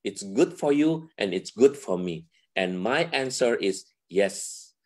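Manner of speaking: slow, gentle reassuring words; a hint of God's gentle voice. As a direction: speak slowly, like a kind blessing. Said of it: "Tuhan juga mengatakan". (sedikit suara Tuhan, pelan dan lembut)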